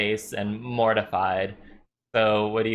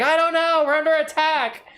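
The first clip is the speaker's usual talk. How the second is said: high frantic cry, louder; panicked guards; 4 dB louder than usual. Acted. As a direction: blurt it in a panic. Panicked camp voices.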